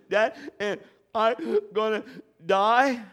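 high, loud frightened question; scared child. Retold or imitated. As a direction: ask it like a terrified boy. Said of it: "he goes".

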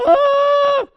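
loud, high mock child shriek; child's scream. Daughter screaming as her father soothes her, loud high shriek. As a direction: shriek in panic.

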